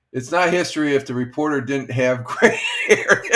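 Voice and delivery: laughing through the joke; breaking into a laugh at the punchline. Real, not acted. Host laughing at his own joke about the reporter, laughing.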